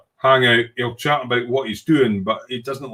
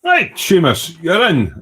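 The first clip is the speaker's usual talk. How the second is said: cheery welcome; 7 semitones higher, 5 dB louder, slower than usual. Real, not acted. Welcoming a new member.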